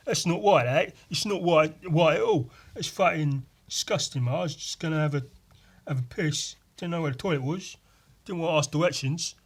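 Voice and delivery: mock lad saying wong and wight for wrong and right; high laddish voice swapping r for w in right; says w for r. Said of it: "they probably pronounce their R's as W's".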